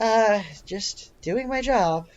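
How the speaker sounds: slow, weary-sounding answer after a sigh; heavy sighing. Acted. Worker answering whether she's okay, sighing heavily. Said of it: "She kinda sighs, like, really heavily".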